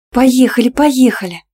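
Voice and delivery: high, loud eager squeal; радостный визг. Acted. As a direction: squeal it, impatient to ride again. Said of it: "довольно и предвкушающе взвизгнула Милана".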